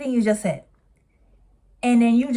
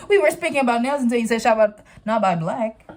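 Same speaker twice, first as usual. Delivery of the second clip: laughing mockery; 4 semitones higher, 5 dB louder than usual. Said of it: "she says something like".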